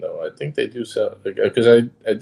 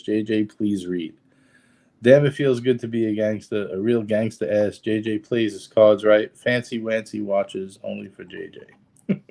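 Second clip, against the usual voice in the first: put-on Brooklyn accent. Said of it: "read something in the Brooklyn accent".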